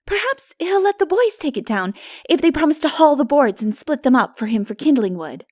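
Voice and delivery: hint of hope in a young girl's plea; hopeful. A narrator's reading. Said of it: "said Anne hopefully".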